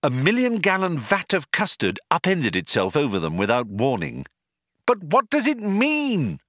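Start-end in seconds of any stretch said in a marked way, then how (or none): 4.9-6.4 higher, anxious cry. Acted. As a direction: cry out the question in panic. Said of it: "cried Arthur".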